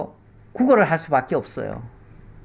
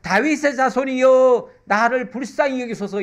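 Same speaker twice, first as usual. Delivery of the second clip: crying out; 7 semitones higher than usual. Acted. Blind beggar Bartimaeus crying out to Jesus, pleading call. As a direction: call out desperately to Jesus, higher pitch. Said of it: "이렇게 외쳤어요".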